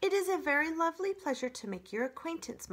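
high, formally gushing robot; overdone friendliness. Acted. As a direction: greet with laboured politeness. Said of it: "Roz's friendly demeanor needed some work".

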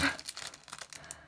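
quiet, voiceless little laugh; small self-conscious chuckle; soft laugh. Real, not acted. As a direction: laugh softly at your own lapse. Forgets the colour's name.

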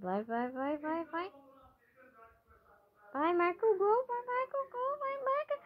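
hushed urging. Real, not acted.

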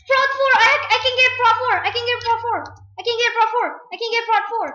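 thrilled, calling it out repeatedly; excited. Real, not acted. Excited over game upgrade.

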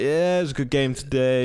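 lightly voiced post-match footballer, barely off her own voice; a hint of a player answering a reporter; footballer's voice. Kid at home giving mum a post-match interview, mild footballer voice. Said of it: "you did it in the footballer's voice there?".

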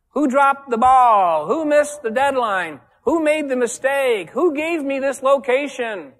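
loud, high, drawn-out blaming questions; accusing demand. Acted. Boss hunting someone to blame at the office, loud accusing demand. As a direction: demand who is at fault, slowly and forcefully.

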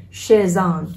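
"shiz on" joined as "shi-zon"; one-word "shiz on"; linked words. Shown as a demonstration. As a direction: carry the z of "shiz" onto "on". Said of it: "đọc nối nha".

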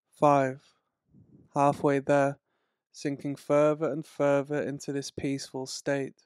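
long pauses between numbers. Acted. Counting down ten to one.

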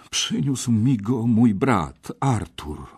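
slow, reluctant confession; sighing admission. A narrator's reading. Kej admits his brother brought the sword, sighing reluctance. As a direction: own up with a sigh. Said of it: "powiedział Kej z westchnieniem".

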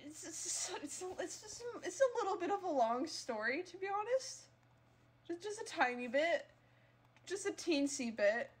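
high, sing-song guilty excuse; sheepish. Real, not acted. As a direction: shrink it down sweetly, caught out.

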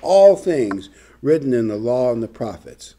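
emphasize all in all things; stress on all. Shown as a demonstration. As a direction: hit the word all. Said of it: "I emphasize the word A L L".

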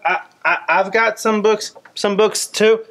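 high, eager puppet pal butting in; a kid-like puppet begging to share; squeaky puppet voice. Acted. Puppet interrupting Malachi, high and eager.

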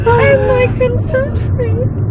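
high squeaky laugh-talk; giggling and confused. Real, not acted. Passenger cracks up at driver.

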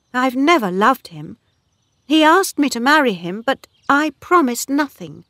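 high-pitched, indignant woman's voice; Bathsheba, indignant. Acted. Woman denies promising Boldwood anything, high and indignant.

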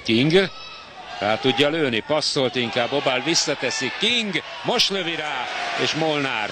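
rising, shouted play-by-play call; excited sports commentary. Real, not acted. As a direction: call the shot as it happens. Live chance on goal.

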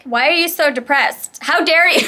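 put-on scandalized attack; mock outrage. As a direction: play an indignant accuser for laughs. Acts out an accuser in an argument.

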